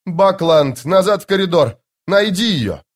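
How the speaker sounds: loud, high urgent command; shouted order. Acted. Lieutenant orders sergeant to find her, shouting. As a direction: bark the order down the corridor.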